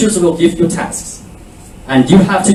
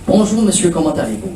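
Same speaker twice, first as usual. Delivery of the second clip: natural greeting; 3 dB quieter, faster than usual. Shown as a demonstration. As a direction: say it as you heard it, naturally. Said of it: "I want you to listen".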